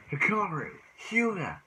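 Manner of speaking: high, rising call of the two names; mock challenger call. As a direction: summon both rivals to battle. Calling two rivals out.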